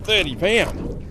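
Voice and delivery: high, mounting amazement; excited reenactment. Retold or imitated. Mates guessing the hooked fish's weight, excited high voice. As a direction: relive the thrill with pitch pushed right up.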